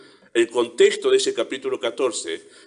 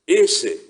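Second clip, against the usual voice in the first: "ese" hit higher and louder; stress on ese; 5 semitones higher, 6 dB louder than usual. Shown as a demonstration. Preacher quoting Christ to the congregation, stress on "ese". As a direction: point at the word "ese" with force. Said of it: "noten ese acento ahí".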